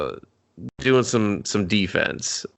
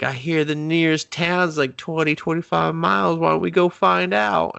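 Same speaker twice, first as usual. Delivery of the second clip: mock naive suggestion; 8 semitones higher than usual. Ileana proposing a far town, high mock cluelessness. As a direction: play it dim and chirpy, pitched well up.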